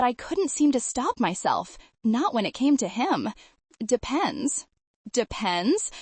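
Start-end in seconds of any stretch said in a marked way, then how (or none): 5.1-5.9 playful, teasing rise; innocently naughty. Acted. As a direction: tease him, sweetly coy. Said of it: "in my best innocently naughty voice".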